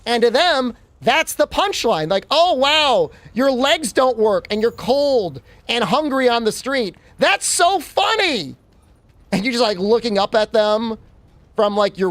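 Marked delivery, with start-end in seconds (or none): 2.3-8.6 high, slow, gloating mock delight; slow, mocking fake amusement at someone's misery; mock amused German. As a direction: ham up a cruel amused onlooker. Mocking Germans laughing at suffering.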